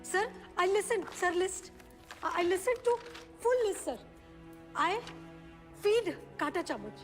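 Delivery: broken, begging the judge in halting English; desperate pleading. Acted. Mother begging the judge to return her children, desperate. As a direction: plead for your children as if your life depends on it.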